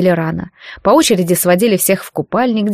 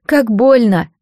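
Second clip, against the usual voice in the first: crying; 2 semitones higher, slower than usual. A narrator's reading. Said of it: "заплакала та".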